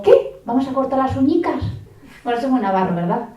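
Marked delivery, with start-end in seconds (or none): 0.0-1.6 high singsong coaxing voice; sweet talk to toddler. Retold or imitated. Mother coaxing her two-year-old, in a high singsong. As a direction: coax a two-year-old into nail cutting. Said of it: "le digo".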